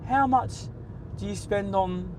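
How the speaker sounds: prim rephrasing, slowing at the end; mock posh correction. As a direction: say it like a proper gentleman. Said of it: "a bit more class about us".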